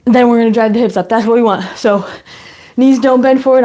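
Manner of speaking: slightly out of breath; talking while winded, short of breath. Real, not acted. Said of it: "I'm already out of breath".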